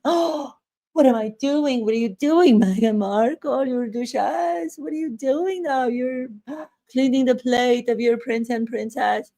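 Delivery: mock tearful duchess fretting over a plate; hammed-up Meghan. Imitating Meghan wiping her children's plates, a hammed-up tearful lament. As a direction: overplay a fussy duchess scolding herself. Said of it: "Does that sound real? if I were to talk like that".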